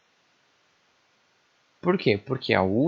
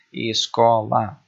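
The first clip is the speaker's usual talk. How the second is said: slow, louder, syllables pulled apart; 5 dB louder, much slower than usual. Shown as a demonstration. Teacher giving another example of syllable division, syllable by syllable. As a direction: sound it out in separate syllables. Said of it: "nós temos três sílabas aqui".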